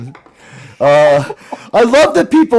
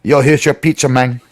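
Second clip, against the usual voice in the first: New York pizza guy; 3 semitones lower than usual. Retold or imitated. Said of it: "imitate someone born in Mexico".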